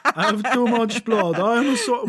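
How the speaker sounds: lightly voiced grand wizard; a hint of a theatrical sorcerer. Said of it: "why is this my sorcerer voice".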